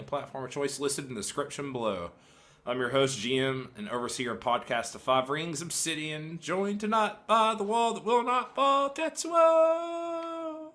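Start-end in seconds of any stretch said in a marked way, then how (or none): 2.6-10.7 all in one breath. Real, not acted. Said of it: "without taking a breath".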